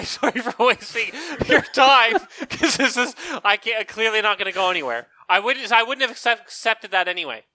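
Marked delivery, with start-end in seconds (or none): 0.0-5.1 laughing mock apology. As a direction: apologize through giggles. Imagined apology at audition, laughing.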